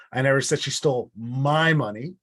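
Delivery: my lifted with a rising tune; stress on my. Shown as a demonstration. Teacher showing the class stress on my. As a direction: point at the word my. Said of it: "I'll prove it to you".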